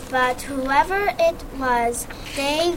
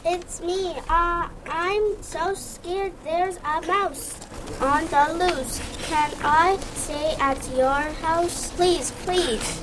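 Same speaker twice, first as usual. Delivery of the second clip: high, hushed and begging; pleading scared elephant; 8 semitones higher than usual. Acted. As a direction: beg to be let in, frightened. Elephant begs at friend's door.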